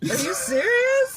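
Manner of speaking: high, slow disbelieving laugh-cry; host shocked by the driver's confession; incredulous. Real, not acted.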